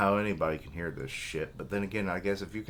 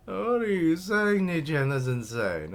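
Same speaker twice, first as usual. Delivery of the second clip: high, loud cry of disbelief; shocked protest; 11 semitones higher, 7 dB louder than usual. Acted. Younger brother objecting to brother's plan, shocked protest. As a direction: blurt it out way up high, coming down gradually.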